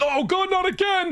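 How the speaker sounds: high-pitched cry of dismay; hammed-up wail of a victim under attack; mock panic. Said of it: "He's like".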